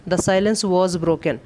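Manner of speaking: each word spaced out, very slow; slow dictation. Shown as a demonstration. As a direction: read it out slowly so students can write. Teacher dictates the answer sentence. (धीमे-धीमे बोलकर लिखवाना)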